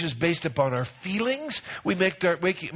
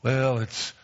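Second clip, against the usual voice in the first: whiny excuses; 6 semitones lower than usual. Retold or imitated. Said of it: "we have all kinds of lame excuses".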